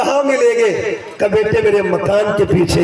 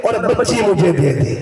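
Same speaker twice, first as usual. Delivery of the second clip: public announcement. Retold or imitated. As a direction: cry it out to all the Arabs like a town crier. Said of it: "اعلان کرتا تھا".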